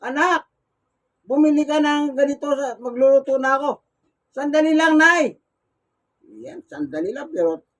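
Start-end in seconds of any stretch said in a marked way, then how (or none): 0.1-3.7 put-on mother calling her child from the kitchen, loud. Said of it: "pag hawak niya yung cellphone". 4.4-5.3 louder call back to mother; child calling back. Retold or imitated. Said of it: "pag hawak niya yung cellphone".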